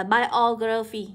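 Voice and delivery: "biography" slowly, stressed on -OG-; nhấn âm hai. Shown as a demonstration. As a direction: punch the second syllable of "biography". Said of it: "nhấn vào âm số hai". (đọc chậm "biography", nhấn vào "og")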